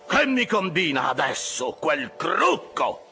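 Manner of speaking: high, frantic begging of the crew; excited, pleading cries. A narrator's reading. Officer hopping about, begging his rowers to speed up, crying high. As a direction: implore them, pitch leaping up on each cry. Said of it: "gridava Flask saltando su e giù".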